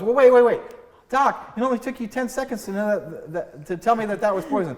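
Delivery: protesting patient. Retold or imitated. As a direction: push back on the bill. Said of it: "and goes".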